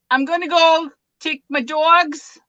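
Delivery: a light Long Island New York accent; New York accent, lightly done. Shown as a demonstration. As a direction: put on a mild New York accent for them. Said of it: "I can change my accent".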